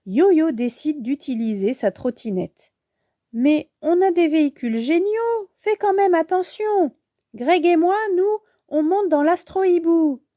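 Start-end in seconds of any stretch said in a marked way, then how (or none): 3.3-10.2 put-on high-pitched, earnest girl hero; cautioning young heroine. Bibou tells Yo-Yo to be careful, cautioning. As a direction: warn a friend in a raised little voice.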